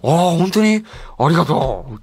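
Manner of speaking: lightly voiced grateful actor; a hint of a beaming actor's thanks; Masato Sakai. Actor receiving the host's CD, lightly imitated grateful reply. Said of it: "この堺さんのモノマネしてるんですけど".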